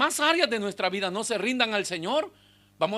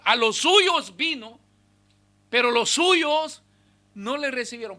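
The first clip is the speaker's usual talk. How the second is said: emphatic slow scripture, louder; 5 semitones higher, 5 dB louder than usual. Shown as a demonstration. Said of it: "pero no quieren rendirse".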